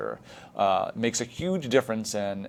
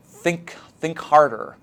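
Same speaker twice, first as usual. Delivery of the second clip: urging teacher; 5 semitones higher, 4 dB louder, slower than usual. Shown as a demonstration.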